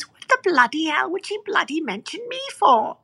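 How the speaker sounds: high-pitched, swooping mock tearful outcry; imitated laugh-crying. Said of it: "He burst into tears and he started laughing".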